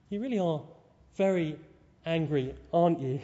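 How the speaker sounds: put-on mild, loving sarcasm to a tantruming child; dry, affectionate needling; a touch sarcastic. Mum to her wailing little boy, lightly sarcastic. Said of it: "it's a touch sarcastic".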